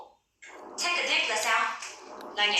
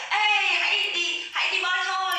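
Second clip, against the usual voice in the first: excited call; 7 semitones higher than usual. Pretend. Calling friends to go swimming, high and excited. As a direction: cheerfully call friends into the pool. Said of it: "tức là bây giờ".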